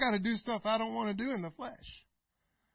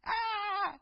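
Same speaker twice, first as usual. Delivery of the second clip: mock scream; 10 semitones higher, 4 dB quieter than usual. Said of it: "just scream".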